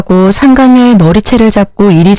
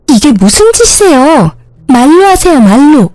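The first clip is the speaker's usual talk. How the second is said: higher, panicked pleading; begging her to stop hitting; flustered protest; 5 semitones higher than usual. Acted. Mistress being hit with pillow. (베개로 맞으며 당황한 상간녀)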